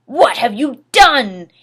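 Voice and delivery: slow whispered dismay; crying whisper. Acted. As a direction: whisper it slowly in grief. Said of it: "he started to cry wisely".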